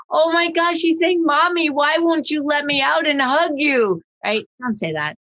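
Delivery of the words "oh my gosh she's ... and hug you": higher, cooing mommy voice for the dog; doting owner. Retold or imitated. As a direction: gush like an owner narrating her pet. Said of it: "Because if you're saying".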